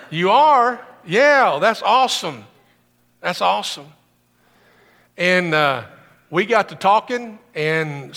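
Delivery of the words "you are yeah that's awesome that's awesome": excited reaction. Retold or imitated. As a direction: react with happy surprise. Excited retold phone call.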